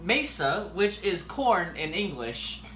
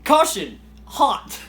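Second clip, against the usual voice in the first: shouted warning; 4 semitones higher, 7 dB louder, slower than usual. Real, not acted. Warning about hot pan.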